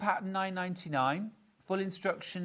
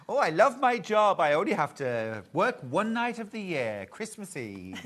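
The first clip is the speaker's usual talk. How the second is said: jolly reindeer voice; 4 dB louder than usual. Acted. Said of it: "What accent was that?".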